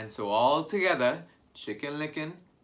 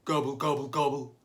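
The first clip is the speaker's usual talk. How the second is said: gobbling like a turkey; turkey gobble; 4 dB louder than usual. Shown as a demonstration. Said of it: "this is how a turkey gobbles".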